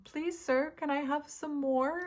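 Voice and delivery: high, pleading little orphan voice; Oliver Twist. Retold or imitated. Tarot reader quoting Oliver Twist, high pleading orphan. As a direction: beg sweetly like a small hungry boy. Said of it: "I'm hearing Oliver Twist".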